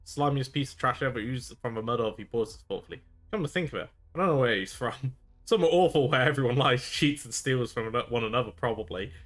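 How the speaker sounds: sly pirate confession. Acted. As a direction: admit it slyly, trying to charm. Pirate describes Fenius.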